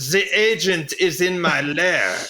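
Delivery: a mock evil mastermind, lightly voiced; hammed-up Bond villain. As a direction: gloat like a cartoon villain in his lair. Continuing the villain bit.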